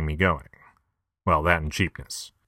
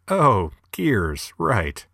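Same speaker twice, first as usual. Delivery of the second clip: sudden realization; 4 semitones higher, much slower than usual. Retold or imitated. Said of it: "At that point you realize".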